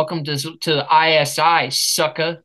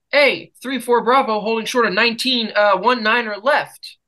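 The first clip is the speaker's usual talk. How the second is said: radio call; 5 semitones higher than usual. Retold or imitated. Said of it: "call the tower".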